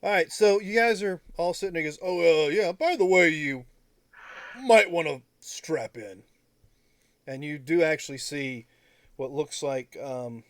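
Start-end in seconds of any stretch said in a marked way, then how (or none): 2.0-6.2 character voice. Acted. NPC warns the party.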